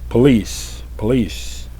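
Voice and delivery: re-enacted police warning, falling firmly; loud, clear retold call. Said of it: "Very loud, very clear".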